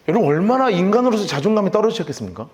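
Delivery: ordinary talk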